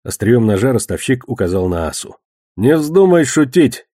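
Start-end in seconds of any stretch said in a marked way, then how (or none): 2.6-3.9 slow, raised, menacing order; threatening warning. A narrator's reading. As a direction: warn him off, stretching it out. Moneylender threatens Asa with knife. (угрожающе, медленно, повышенным тоном)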